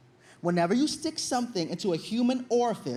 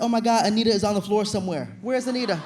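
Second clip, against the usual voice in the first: frantic search; 4 dB louder, faster than usual. Retold or imitated. Searching in panic.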